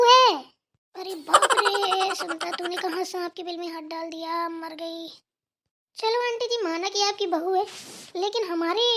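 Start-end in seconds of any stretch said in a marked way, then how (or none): 1.0-5.1 panicked aside. Acted. Guest panics quietly to herself.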